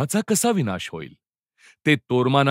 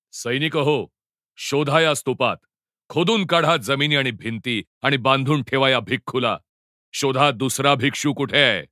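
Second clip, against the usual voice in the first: ओरडून दिलेला हुकूम; 3 semitones higher than usual. Acted. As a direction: call out orders to your soldiers. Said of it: "ओरडून म्हणाला". (सैनिकांना ओरडून हुकूम, चढ्या स्वरात)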